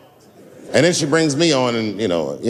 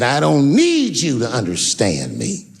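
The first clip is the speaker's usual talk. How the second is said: slow, drawn-out plea, imitating her; earnest retold plea. Daphne to her friend, no longer joking, earnest retold plea. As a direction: imitate her insisting, each word weighted. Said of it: "looks at me like I'm not her friend".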